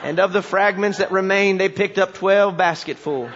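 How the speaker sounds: lightly voiced country preacher, deadpan; solemn folksy pronouncements, settling toward the punchline; backwoods preacher storytelling. Country preacher finishing his jumbled story, mock-solemn backwoods voice. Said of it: "he starts to tell this story".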